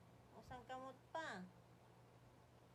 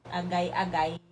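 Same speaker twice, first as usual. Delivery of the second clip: loud, lower playful yelp of pain; loud mock ouch; 4 semitones lower, 23 dB louder than usual. Mother to grabbing baby, loud mock ouch. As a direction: yell ouch like the baby got you.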